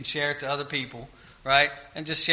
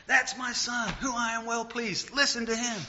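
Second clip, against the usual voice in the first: voice of God; 8 semitones higher, 5 dB quieter than usual. Retold or imitated. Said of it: "who God yelled and says".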